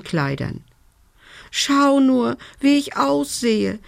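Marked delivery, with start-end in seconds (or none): 1.5-3.8 a sooty fairy complains about her looks; wailing fairy. A narrator's reading. Fairy wails to the dragon about her ruined look, much higher. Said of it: "jammerte sie".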